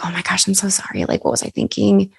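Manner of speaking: imagined apology to the photographer, soft and timid; people-pleasing apology. Retold or imitated. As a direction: grovel lightly, as if taking it all back. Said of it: "people pleaser".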